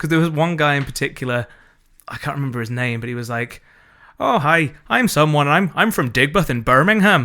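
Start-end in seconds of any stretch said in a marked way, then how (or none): 4.2-7.3 mock bad fake Irish accent, higher and louder. Imitating an actor's dodgy accent from a show: imitating a dodgy half-Irish accent. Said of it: "it sounded like he was trying to be Irish".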